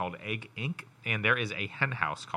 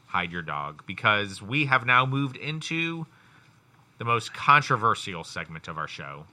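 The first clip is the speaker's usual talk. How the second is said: dramatic announcer; slower than usual. Acted. Dramatic intro of show segment.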